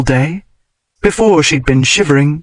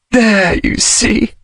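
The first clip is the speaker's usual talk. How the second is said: higher, slow and trembling; shaky voice; 8 semitones higher, much slower than usual. A narrator's reading. Woman in her lover's arms, voice shaky. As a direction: hold back tears. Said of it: "her voice shaky".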